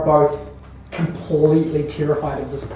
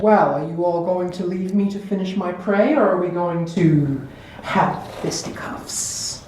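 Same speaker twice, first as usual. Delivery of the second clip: lightly voiced haughty villainess; arch Countess; 3 semitones higher than usual. The Countess challenges the group over her prey, archly. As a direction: toy with them, slowing at the end. Game master plays Countess.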